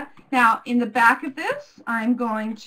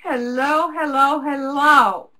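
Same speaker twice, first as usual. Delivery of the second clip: hello in character; 6 dB louder, slower than usual. Acted. Greeting repeated in character voice.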